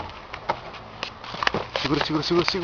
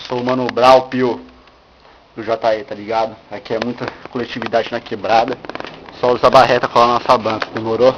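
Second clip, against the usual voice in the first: street rapper persona; 4 dB louder than usual. Pretend. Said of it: "deixa eu me apresentar agora".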